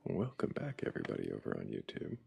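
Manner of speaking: YouTuber voice. Pretend. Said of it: "That's the best YouTuber voice I can do".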